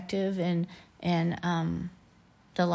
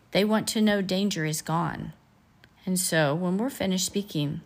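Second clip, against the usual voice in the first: reading aloud. A narrator's reading. Reads robot dialogue aloud.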